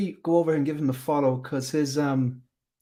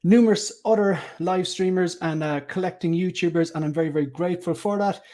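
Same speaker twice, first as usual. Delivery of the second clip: higher-pitched presenter's intro; show-opening welcome; 5 semitones higher than usual. Acted. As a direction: welcome the viewers in a lifted hosting voice. Presenter opens the live stream.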